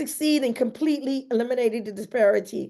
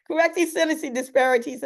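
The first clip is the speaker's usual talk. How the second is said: reading on through a giggle; amused at her own mistake; chuckling over a misread word; laughing slip; 4 semitones higher than usual. Real, not acted.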